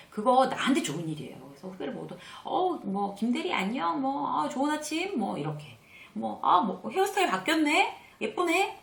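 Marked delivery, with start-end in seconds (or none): 2.4-5.2 high-pitched, cheery hello to a junior colleague; friendly greeting. Acted. 6.4-8.8 very high, friendly praise; admiring compliment. Shown as a demonstration. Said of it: "뭔가 이렇게 칭찬해주고".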